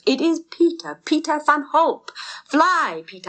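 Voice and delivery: high, loud, urgent; excited cheering. A narrator's reading. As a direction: shout him toward the finish. Narrator cheering the finish.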